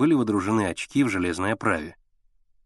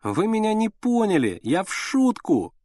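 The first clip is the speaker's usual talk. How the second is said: tearful pleading; 10 semitones higher than usual. A narrator's reading. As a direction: beg near tears. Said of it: "плачущим голосом".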